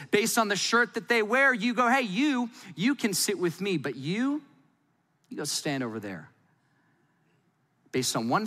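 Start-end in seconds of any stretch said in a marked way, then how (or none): 1.9-6.3 welcome fading to cold dismissal. Pretend. Welcoming then dismissing by shirt.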